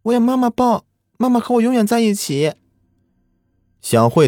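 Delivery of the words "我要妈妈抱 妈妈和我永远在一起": too calm creepy doll. A narrator's reading. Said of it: "只是说道".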